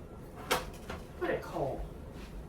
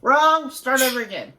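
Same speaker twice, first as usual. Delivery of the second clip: sharp loud correction; 4 dB louder than usual. Real, not acted. Director halting the improv scene, loud and firm. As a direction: cut it off with a loud Wrong.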